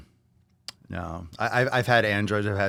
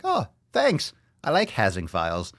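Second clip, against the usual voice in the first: put-on broken-English accent. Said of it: "With that accent".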